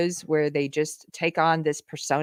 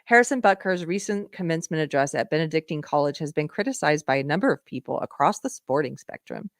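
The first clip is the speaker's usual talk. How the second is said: put-on gossipy girl voice. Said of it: "I don't know why I'm doing that voice for this".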